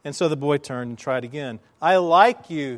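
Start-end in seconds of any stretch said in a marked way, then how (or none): 1.8-2.8 loud, projected call; boy shouting it across the valley. Retold or imitated. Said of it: "he called out".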